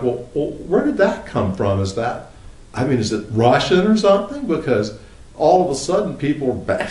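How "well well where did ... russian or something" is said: mock bafflement. Puzzled reaction, voice rises.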